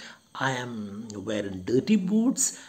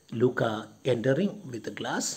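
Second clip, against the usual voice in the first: usual speaking voice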